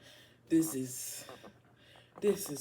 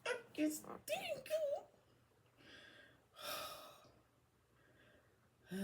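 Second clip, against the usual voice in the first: helpless laughter; 4 dB louder than usual. Real, not acted. Reader peeking at the deck's bottom, helpless laughter. Cracks up at the last card.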